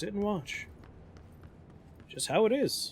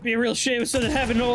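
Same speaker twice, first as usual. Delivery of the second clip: mocking taunt; 5 semitones higher than usual. Taunting while smashing.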